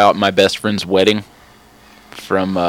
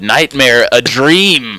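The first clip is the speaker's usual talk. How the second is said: mock critic pun; 4 semitones higher, much slower than usual. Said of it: "had her own Gene Shalit moment".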